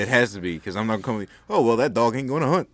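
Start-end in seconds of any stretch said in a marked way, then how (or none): 1.5-2.7 light Southern folk saying; Southern accent. Retold or imitated. Quoting a saying to friends, light Southern accent. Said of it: "He said it in a Southern accent".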